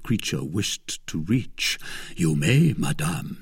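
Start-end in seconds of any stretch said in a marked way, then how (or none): 2.2-3.4 "You may" said firmly, then "madame" drops low; emphatic assent. A narrator's reading. Suitor pledging to lady, "You may" emphatic. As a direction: give "You may" weight, let "madame" fall. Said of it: "said he with emphasis".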